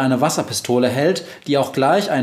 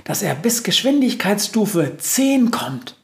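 high, slowed mouse boast; self-important little voice; proud mouse; 9 semitones higher than usual. A narrator's reading. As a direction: squeak the news proudly, taking your time. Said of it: "sagt die Maus stolz".

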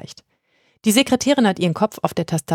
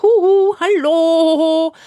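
high, loud sing-song call; yoo-hoo to get everyone's attention; the witch calling out to get heard; 11 semitones higher, 5 dB louder, much slower than usual. A narrator's reading.

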